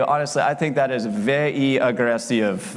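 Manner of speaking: slow, deliberate Russian mobster drawl; menacing pauses like a movie gangster; John Malkovich as Russian mobster. Retold or imitated. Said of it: "my best impression of John Malkovich doing an impression of a Russian mobster".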